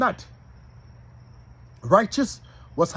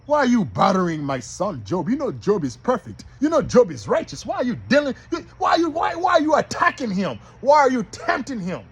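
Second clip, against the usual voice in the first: God challenging Satan; 3 semitones higher than usual. Acted. God questions the devil about Job, insistent and rising. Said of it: "So God is telling the devil".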